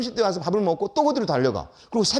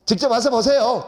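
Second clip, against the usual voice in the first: raised, insistent mock-officer voice; curt police officer; 5 semitones higher, 4 dB louder than usual. Police officer ordering the teacher to come see, curt. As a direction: lightly act an irritated official ending the call.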